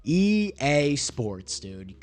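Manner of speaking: slow drawn-out groan of disbelief; exasperated. Real, not acted. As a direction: stretch it out, fed up with the game. Exasperated at game result.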